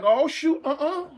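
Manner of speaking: half-scared muttering to yourself; nervous worry. Retold or imitated. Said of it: "I'm like".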